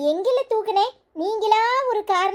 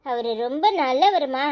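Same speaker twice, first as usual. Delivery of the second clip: mean every word, gently; sincere affection; 8 semitones lower than usual. Real, not acted. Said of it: "என்னடி திடீர்னு பாசம் பொங்குது".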